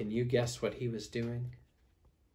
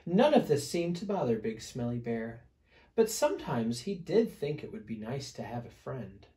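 put-on animated read-aloud to small children; storybook narration; 5 semitones higher, 7 dB louder than usual. A narrator's reading. Reader telling children about an itchy bear, lively storytelling. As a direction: tell it with stressed key words and swooping pitch.

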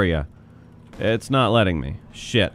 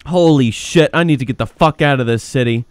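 loud alarm sinking toward usual voice; panic subsiding; 2 semitones higher, 4 dB louder than usual. Pretend. Cat officer surrounded and wanting out, subsiding panic. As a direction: let the play-acted panic drain out.

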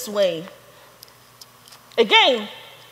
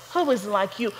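"Who is like you" dropped low and soft; hushed echo; 3 semitones lower, 5 dB quieter than usual. Acted. Preacher echoing the scripture line to the congregation, hushed. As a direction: let the question fall to a hush.

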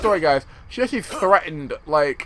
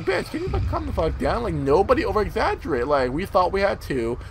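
exasperated retort. Retold or imitated. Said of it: "We were like".

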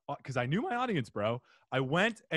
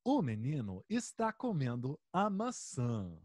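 robotic program voice; 2 semitones lower, 5 dB quieter than usual. Retold or imitated. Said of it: "and then it says".

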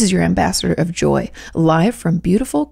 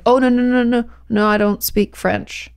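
higher, repeated no's slowing down; retold flustered denial; 5 semitones higher than usual. Telling tailor she has no French, mock flustered denial. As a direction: replay your own hurried backing away. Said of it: "I was like".

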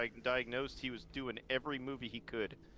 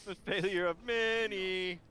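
slow, louder, booming declaration; grand dramatic voice; 5 semitones higher, 6 dB louder, slower than usual. Acted. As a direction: proclaim it like an epic trailer. Repeating it grandly.

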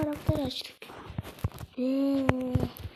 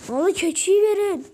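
demanding; 5 dB louder than usual. Pretend. Demanding the goat.

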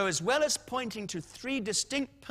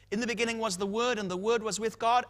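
quick recitation; 2 semitones higher, faster than usual. Shown as a demonstration. Paraphrase rattled off toward punchline.

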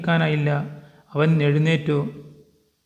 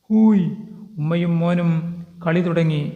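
jeering shout. Acted. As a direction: jeer at them from across the fence. Jeering cry from neighbours. (ആർപ്പുവിളി പോലെ ഉച്ചത്തിൽ പരിഹാസം)

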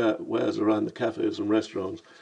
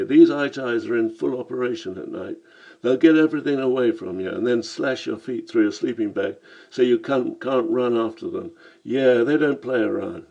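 Cockney voice; 3 dB louder than usual. Acted. Lamb warns of thieves.

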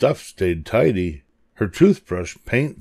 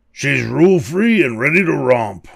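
higher, rousing monster boast; mild bellow; 6 semitones higher, 3 dB louder than usual. A narrator's reading. Furry monster boasting about Maya, mild high bellow. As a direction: bellow it lightly, pitched up. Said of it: "bellowed a furry monster".

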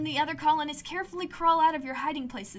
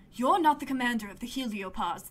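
firm. Acted. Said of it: "they say firmly".

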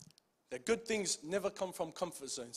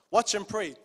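watch and pray pushed out louder; louder repeat; 7 dB louder than usual. Shown as a demonstration. Preacher repeating a command to his church, louder. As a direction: press Watch harder the second time. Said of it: "Emphasis on the word".

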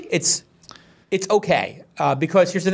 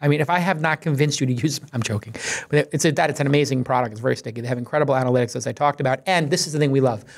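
ad read. Acted. Sponsor ad read continues.

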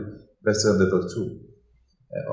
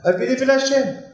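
proclaiming belief; 12 semitones higher than usual. Acted. Declaring faith in sermon.

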